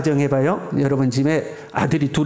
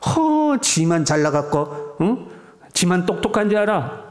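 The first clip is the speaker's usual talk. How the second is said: a scoffing huff, then a sneering dig; mock the husband with contempt; scornful jab. Shown as a demonstration. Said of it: "상대방을 깎아내리는 거죠".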